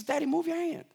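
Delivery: put-on high little boy voice, demanding; bossy toddler. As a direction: order daddy off like a small child. Father voices demanding son.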